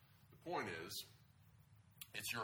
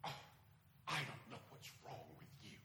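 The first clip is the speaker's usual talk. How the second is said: exasperated parent, rising higher and louder; foolish parent; 8 semitones higher, 6 dB louder than usual. Acted. Pastor playing a foolish parent scolding Aaron, exasperated and high. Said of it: "I'm gonna be a foolish parent".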